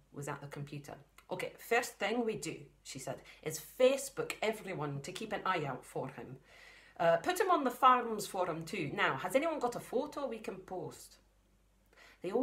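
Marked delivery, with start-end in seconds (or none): 1.3-2.7 put-on light Scottish accent for the mum, a bit higher; a hint of a Scottish farm mum. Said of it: "the mum has got the Scottish voice". 3.4-11.2 a hint of a Scottish farm mum. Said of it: "the mum has got the Scottish voice".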